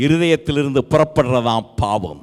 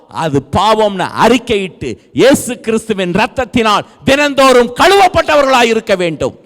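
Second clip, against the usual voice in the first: forceful sermon delivery building at the end; emphatic preaching; 4 semitones higher, 4 dB louder than usual. Real, not acted. Preacher urging congregation to be washed daily, emphatic preaching.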